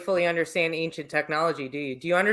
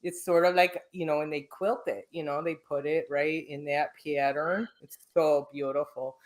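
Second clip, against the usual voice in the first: put-on Midwestern accent. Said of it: "I'm gonna get my Midwestern accent out on ya".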